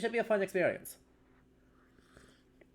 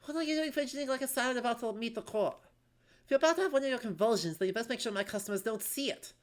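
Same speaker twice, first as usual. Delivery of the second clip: scolding innkeeper; 4 semitones higher, faster than usual. Acted.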